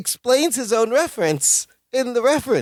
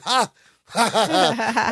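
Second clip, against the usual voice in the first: higher, deliberate fake "ha"s; imitated mocking laugh; 4 semitones higher, slower than usual. Co-host imitating Larry and Balki laughing again, fake laugh. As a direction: repeat a duo's defiant laugh. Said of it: "then they go again".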